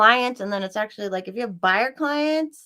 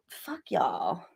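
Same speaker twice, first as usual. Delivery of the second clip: breathy whispered curse; 5 semitones lower, 8 dB quieter than usual. Real, not acted. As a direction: hiss it under your breath. Muttered insult to chat.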